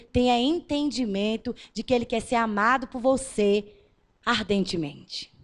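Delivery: usual speaking voice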